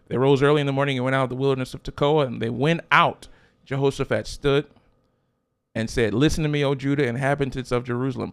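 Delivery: fast, even Bible reading; rapid pulpit scripture read. Acted. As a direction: read the verse straight through. Reads Second Chronicles aloud.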